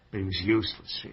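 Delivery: mild contempt; scornful. Acted. Tenant describes murdered neighbour to friend, mildly scornful. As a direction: dismiss him with understated dislike. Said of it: "first you sound like you hate him".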